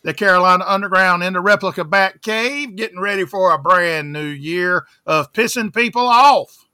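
bouncing off the walls on coffee; too much caffeine. Real, not acted. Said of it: "I've had about seven cups of coffee already today".

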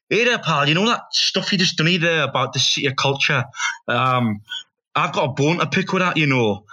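mock Scottish challenge; attempted Scottish accent. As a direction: have a go at a Scottish fella. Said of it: "there was a Scottish fella".

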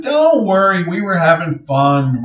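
high-pitched, easygoing reassurance; imitated reassurance. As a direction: soothe a worried mother, lightly acted. Neil reassures crying, worried mom.

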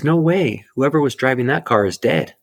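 imitating the tow yard attendant; stunned attendant. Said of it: "And he says".

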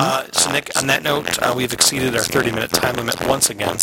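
echoing microphone; digital echo. Real, not acted. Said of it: "real cool echo effect in your microphone".

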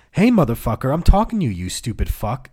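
imitated insult, pitch jumping up midway; mock angry scream. Angry man cursing at the telemarketer, mild mock yell. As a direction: act out an irate customer, half-voiced yell. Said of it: "they'd scream at me and insult me".

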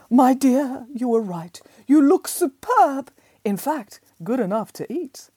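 high, slow, fond fairy voice; fairy godmother. Acted. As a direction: dote on her like a fairy godmother. Fairy godmother admires the dress.

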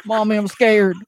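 put-on high, crying baby-voice pleading to mommy; mock terrified man-child begging mommy; whiny scared groom. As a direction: whimper for mommy like a frightened child. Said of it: "he's like".

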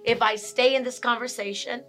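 composed, reasoning tone; calm, constructive. Shown as a demonstration. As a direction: step back from anger without venting. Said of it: "more of a constructive conversation".

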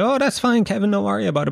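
calm it down like a kind mum; mother reassuring. Retold or imitated. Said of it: "my mother was like".

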